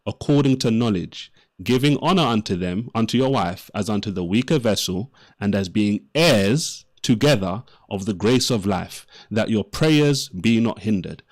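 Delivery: scripture reading. Acted. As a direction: read it out like a sermon. Reads Bible verse aloud.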